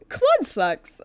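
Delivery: laughing shout. Real, not acted. Exasperated outburst at game.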